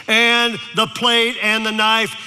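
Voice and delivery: put-on a touch of a child's eager prayer; kid's loud prayer. Boy praying aloud in the restaurant, mildly eager. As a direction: pray it out like a proud little boy. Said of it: "prayed the loudest prayer".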